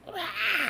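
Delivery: a short mock kid scream "Ah!", high-pitched; imitated child scream. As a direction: mimic a kid shrieking, briefly. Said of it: "and I hear".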